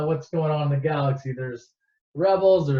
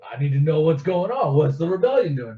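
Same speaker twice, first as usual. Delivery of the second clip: menacing Vader; 4 dB louder than usual. Retold or imitated. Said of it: "a menacing way".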